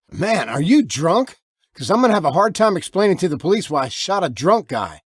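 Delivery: wary and rattled; tense warning. Acted. Armed man warns stranger.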